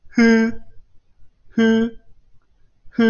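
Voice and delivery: 呼 begun with exhaled air; short, separate 呼 with an h of breath; breathed-out onset. Shown as a demonstration. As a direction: blow air out into the vowel of 呼. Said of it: "然后呼气".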